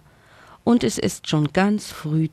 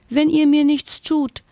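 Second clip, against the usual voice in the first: much higher, louder tiny frightened fairy; squeaking fairy; 11 semitones higher, 4 dB louder than usual. Acted. Tiny fairy pleads with the friends, squeaking in fear. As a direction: squeak it out like a thumb-sized fairy. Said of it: "piepste sie".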